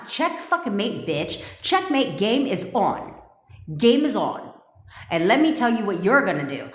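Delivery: sassy fury at the ex, going for the jugular; mock angry clapback. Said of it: "Get mad and be like".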